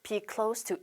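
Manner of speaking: "close" with an unvoiced s running into "to"; correct s version. Shown as a demonstration. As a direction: softly model "close" with an s. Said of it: "이렇게 발음을 하셔야 되고요".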